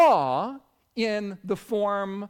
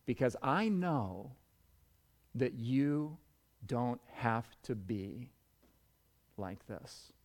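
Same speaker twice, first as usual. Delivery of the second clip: hushed, low, slowing to almost nothing; retold whisper; 7 semitones lower, 10 dB quieter than usual. Retelling a mother's answer to the broken young man, hushed. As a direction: speak very softly, with long pauses. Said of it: "I whispered to him".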